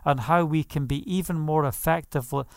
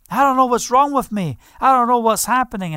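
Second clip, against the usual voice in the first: higher and louder, imitating a man overwhelmed by tears; bewildered plea; 6 semitones higher, 5 dB louder, faster than usual. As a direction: voice his helpless confusion. Weeping atheist quoted.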